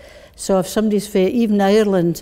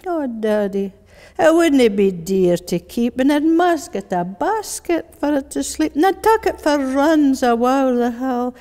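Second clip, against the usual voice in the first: put-on coaxing child in Glasgow accent; strong Glasgow accent; 5 semitones higher than usual. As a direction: wheedle and plead in broad Glaswegian. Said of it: "that strong Glasgow voice".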